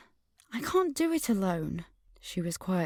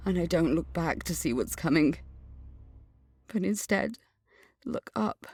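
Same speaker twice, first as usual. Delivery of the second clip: dream narration. A narrator's reading. Narrator recounts her nightmare vision, hushed. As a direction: draw the listener into the dream.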